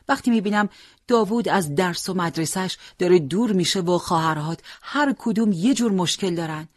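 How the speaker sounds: lightly voiced fretting mother; anxious mother. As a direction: pour out a mother's worries.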